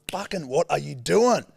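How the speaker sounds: acted road-rage frustration; retold exasperation. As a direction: drag it out in exasperated disbelief.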